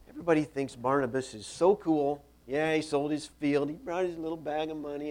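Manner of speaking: indignant, resentful griping; worked-up, jealous complaint, lightly acted; mild acted anger. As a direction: play an aggrieved rival grumbling. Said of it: "you can see the anger".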